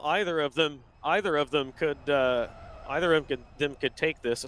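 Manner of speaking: stumbling and repeating the start; tongue-tied, restarting the phrase; stuttering. Real, not acted. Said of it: "Sorry, I'm stuttering".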